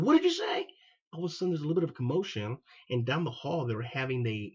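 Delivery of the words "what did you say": higher, louder furious demand; confronting the sergeant who insulted him, shouting in fury; retold angry shout. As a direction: challenge him, furious and loud.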